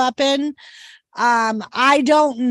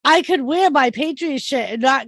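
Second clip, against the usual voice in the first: excited retelling; 3 semitones higher than usual. Retold or imitated. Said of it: "I'm like".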